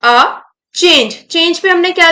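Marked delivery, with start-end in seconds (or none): 0.0-0.3 short, light A with no stress; unstressed A. Shown as a demonstration. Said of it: "unstress". 0.8-1.1 change said with firm emphasis; stress on change. Shown as a demonstration. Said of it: "stress दिया है".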